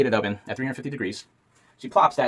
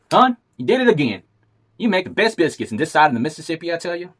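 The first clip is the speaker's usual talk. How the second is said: folksy cowboy husband, pitched up; rancher voice; 6 semitones higher, 3 dB louder than usual. Acted. Rancher praising wife's biscuits.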